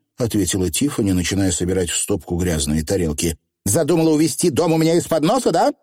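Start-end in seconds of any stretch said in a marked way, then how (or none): 3.6-5.7 high, hurried accusation, near tears; understated tearful reproach. A narrator's reading. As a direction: accuse quickly, on the edge of crying. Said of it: "Анаграмма чуть не плакала".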